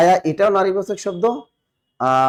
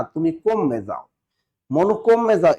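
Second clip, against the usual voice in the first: Barisal dialect; slower than usual. Retold or imitated. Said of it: "মানুষ আর কইবে না".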